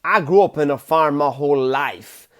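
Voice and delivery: lightly voiced American actor; a hint of a mobster playing a farmer; Christopher Walken. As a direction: do a loose actor impression. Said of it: "a sketch of Christopher Walken going".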